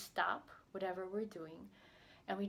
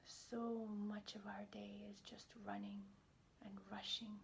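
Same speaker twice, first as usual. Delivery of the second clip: guided meditation. Acted. Pediatrician guiding tired healthcare providers into a body scan, calm meditation voice. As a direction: ease listeners into stillness, leaving space between phrases.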